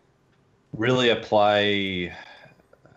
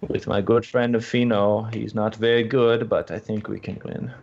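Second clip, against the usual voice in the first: mock German accent. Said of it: "Tell him to do a German accent".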